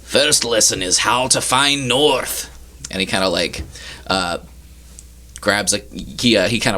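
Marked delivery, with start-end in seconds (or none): 0.0-2.5 lightly voiced captain, higher pitch; instructing sea captain. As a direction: teach as a ship's captain. Captain begins lesson in character.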